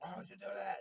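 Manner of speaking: exasperated shout. Retold or imitated. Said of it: "I'm like".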